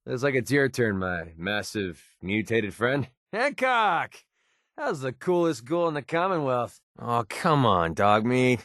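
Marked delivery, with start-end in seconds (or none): 3.3-6.8 high-pitched, delighted call-out; hearty greeting. Acted. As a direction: hail an old pal by name. Greets a friend by calling name.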